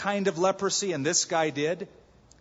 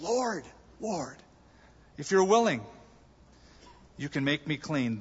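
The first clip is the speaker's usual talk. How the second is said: crying out to Jesus. Retold or imitated. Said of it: "he cries out".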